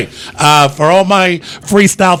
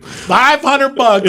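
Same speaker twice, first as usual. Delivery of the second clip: very slow, raised repeat; slow emphatic offer; 7 semitones higher, much slower than usual. Retold or imitated. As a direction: stretch every word of it.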